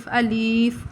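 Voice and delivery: الیف pulled long on the i; drawn-out alif. Shown as a demonstration. Teacher imitates children stretching the letter. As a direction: drag out الیف as aleef. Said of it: "کھینچ کھینچ کے".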